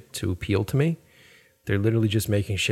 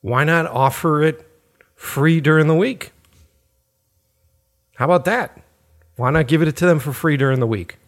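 higher-pitched incredulous rant at a phone company; mock outraged retort; 5 semitones higher than usual. Ranting at a phone company ad, incredulous and mocking. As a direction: scoff at the stingy discount offer. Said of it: "And it's just like".

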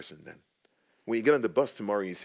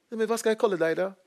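high, louder imitation of an older lady; 13 semitones higher, 5 dB louder, much faster than usual. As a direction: play the old lady, pitched way up. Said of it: "She was, like, in the seventies".

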